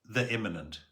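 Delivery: measured poem recital with long pauses; solemn, spaced-out verse reading; poetry reading. Acted. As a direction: read your poem aloud, letting each phrase hang. Reads own poem aloud.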